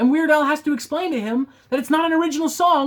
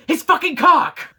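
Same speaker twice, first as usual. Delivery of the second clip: quiz punchline; 6 semitones higher, 5 dB louder than usual. Acted. Quiz climax option.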